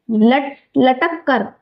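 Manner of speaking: लटक कर broken into लट and कर, said slowly; slow syllable split. Shown as a demonstration. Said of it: "क्या लिखा है?". (धीरे धीरे लट-, लटक कर)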